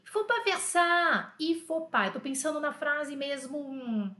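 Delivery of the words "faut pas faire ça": slow, carefully spoken French; slow model sentence. Shown as a demonstration. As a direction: say it slowly for students to repeat. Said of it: "Repete comigo". (devagar, para os alunos repetirem)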